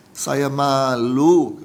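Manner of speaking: slow, low, drawn-out imitation of crying; retold tearful confession. Fire victim telling his pastor while crying, retold tearful confession. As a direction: draw the words out, mildly imitating a tearful man. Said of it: "Dia bilang ke saya sambil nangis".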